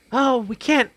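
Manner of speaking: high, whiny mock ex-wife. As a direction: whine it as the fed-up ex. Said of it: "she said".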